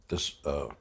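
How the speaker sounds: barely holding back tears while remembering; choked up. Real, not acted. Recalling his mother at the citizenship line, choked up. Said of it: "I get choked up".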